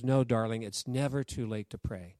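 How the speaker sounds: low, tender voice of a mother; reassuring mother. Retold or imitated. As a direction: gently reassure a child, pitched low. Mother reassures her sick son.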